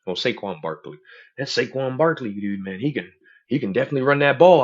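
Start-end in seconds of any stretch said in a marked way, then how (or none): 1.4-4.6 sports bro voice. Retold or imitated. Mimicking how he talked to sports fans.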